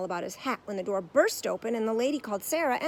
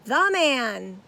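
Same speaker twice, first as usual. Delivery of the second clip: patient; 4 semitones higher, 11 dB louder than usual. A narrator's reading. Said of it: "said Paddington patiently".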